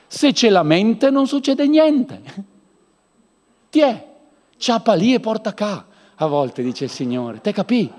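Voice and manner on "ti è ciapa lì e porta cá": ordinary delivery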